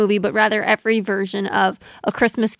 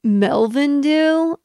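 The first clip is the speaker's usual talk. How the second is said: higher, very slow, dazed; clueless beach teen drawl; dumb teen; 5 semitones higher, much slower than usual. Retold or imitated. Teen in Hawaiian shirt answering, dumb and slow. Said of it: "He's just like".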